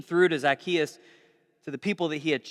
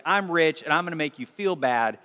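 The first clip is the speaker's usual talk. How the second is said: smug rich man; 5 semitones lower than usual. Retold or imitated. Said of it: "rich, like".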